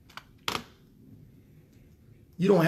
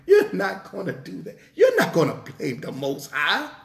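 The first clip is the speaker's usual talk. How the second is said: laughing. Real, not acted. Preacher teasing congregation, laughing.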